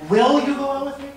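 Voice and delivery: "Will" said high and insistent. Shown as a demonstration. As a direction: pitch "Will" up high, pleading. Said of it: "on the emphasis on a different word".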